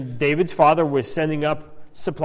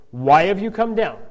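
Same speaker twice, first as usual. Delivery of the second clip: crabby; 3 semitones higher, 3 dB louder than usual. Retold or imitated. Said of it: "he gets crabby".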